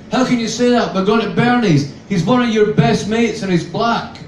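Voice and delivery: high, loud shocked objection; indignant protest. Acted. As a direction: protest in disbelief at what he said. Tanya objects, outraged.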